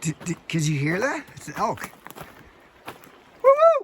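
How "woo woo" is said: loud high woo calls; bear calls. Real, not acted. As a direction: call out to warn bears. Hiker calling out to bears.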